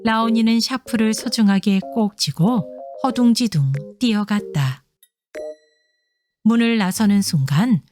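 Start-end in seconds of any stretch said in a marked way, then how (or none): none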